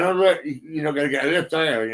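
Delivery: lightly re-enacted jeer at someone; mocking taunt. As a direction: retell the taunt with a touch of mockery. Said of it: "I was laughing at him, saying".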